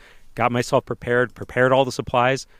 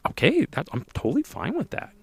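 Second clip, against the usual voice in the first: much higher, mock-eager yes; eager agreement; 11 semitones higher than usual. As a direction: play his over-eager, higher-pitched yes. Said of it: "And I'm like".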